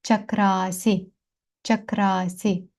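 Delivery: Чакрасі slowly, with the А after КР held; long stressed vowel. Shown as a demonstration. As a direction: stretch the middle А of Чакрасі. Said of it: "всі їх ми виділяємо наголосом".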